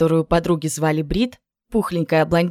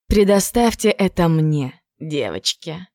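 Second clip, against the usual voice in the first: gleeful anticipation; slower than usual. Acted. Jen reassuring her friends with gleeful anticipation. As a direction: savour it, rubbing hands. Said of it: "потирая руки от предвкушения".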